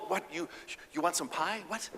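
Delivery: loud, high, frustrated demand; fed up, just tell me; exasperated husband. Acted. Husband frustrated by her hints, loudly exasperated. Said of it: "husband confused by hints".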